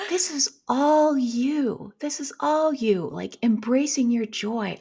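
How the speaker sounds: mock accent of mom praising her daughter; imitating mom. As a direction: play mom gushing with pride, slowly. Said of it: "accent is that I'm putting on for my mom".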